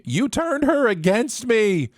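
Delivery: high, drawn-out melodramatic shout; hammed-up cry of accusation; mock shouting. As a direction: shout it like an overwrought movie duel. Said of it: "It's usually followed by shouting".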